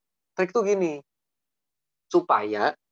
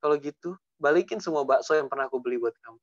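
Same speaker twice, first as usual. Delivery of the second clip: put-on understated jilting boyfriend; mock breakup speech. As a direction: break up gently, then make the demand. Acted boyfriend demanding gifts back.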